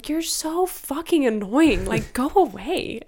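hammed-up irritation at a clingy person; mock annoyed friend. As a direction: play the fed-up friend snapping back. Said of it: "You're gonna be like".

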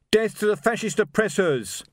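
high, loud defiant cry; shouted slogan. A narrator's reading. Hidden rebel shouting at the watchmen, loud and high. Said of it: "a voice shouted".

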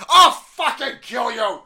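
high, loud, drawn-out mock threat; hammed-up enraged TV anchor shout; Cuomo. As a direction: yell it slowly in a put-on voice. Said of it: "I think that was Cuomo".

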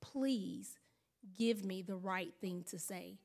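soft, low, earnest prayer; hushed sincere prayer; quiet prayer. Retold or imitated. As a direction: pray under your breath for help. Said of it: "he said".

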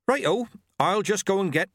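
put-on cheeky, high old woman; high teasing old witch. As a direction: tease him, high and bright. Nanny Ogg bustling.

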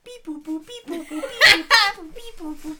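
high, slow beep boop robot; toy robot voice. Pretend. Robot noises while searching.

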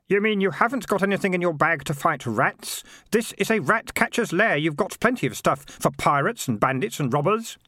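put-on exasperated young character. Girl and boy arguing amid rats.

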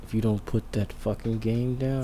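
parent hissing a warning through teeth; through gritted teeth. Shown as a demonstration. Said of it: "talking through your teeth when you're a parent".

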